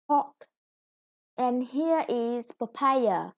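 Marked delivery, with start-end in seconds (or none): 1.4-3.3 papaya with the PA in the middle stressed, said slowly; teacher modelling the word papaya. Shown as a demonstration. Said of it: "with the second syllable stressed".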